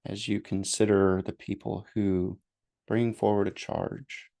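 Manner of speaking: unhurried meditation guidance with long pauses; guided meditation. Real, not acted. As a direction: gently lead listeners through breathing and noticing.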